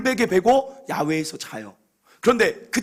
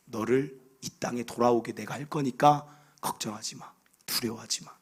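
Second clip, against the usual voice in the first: softer and lower, comforting a frightened son; gentle reassurance; 6 semitones lower, 6 dB quieter than usual. Acted. God comforting fearful Jacob, soft and tender. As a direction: soothe him, tell him not to fear.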